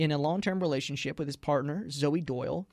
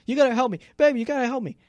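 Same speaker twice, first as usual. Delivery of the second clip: higher, mock-desperate plea; lightly acted panicked begging; frantic; 6 semitones higher, much faster than usual. Kidnapped boyfriend pleading with partner by phone, mock frantic. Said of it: "he is frantic on the phone, screaming".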